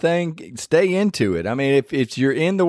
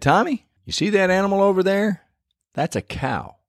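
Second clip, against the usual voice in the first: put-on high, patient father explaining to a small boy; patient dad teaching son; 7 semitones higher than usual. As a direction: point it out like a proud dad.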